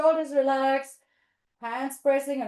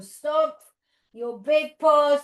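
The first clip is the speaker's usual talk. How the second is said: loud stomping command; 4 semitones higher, 8 dB louder, slower than usual. Pretend. Acting out the stomping bear.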